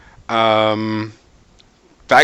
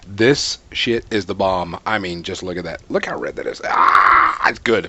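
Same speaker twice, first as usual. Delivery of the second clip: talking while crunching popcorn; 5 semitones lower than usual. Real, not acted. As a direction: speak between bites of crunchy popcorn. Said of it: "hear me crunching".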